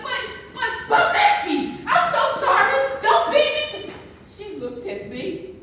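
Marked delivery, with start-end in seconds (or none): 0.0-3.9 much higher, louder mock begging; mock pleading. Teasing her friend Missy in a store, hammed-up frightened begging. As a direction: squeal a hammed-up plea for mercy. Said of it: "I'm like".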